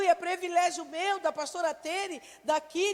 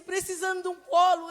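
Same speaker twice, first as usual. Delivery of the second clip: tender prayer; 3 semitones higher, 6 dB louder than usual. Retold or imitated. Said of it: "Eu disse".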